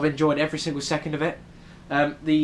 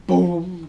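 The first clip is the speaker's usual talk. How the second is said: punchy, higher "boom"; loud boom; 4 semitones higher, 6 dB louder than usual. Retold or imitated. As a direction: drop a loud sound-effect boom. Mimics the impact of amazement.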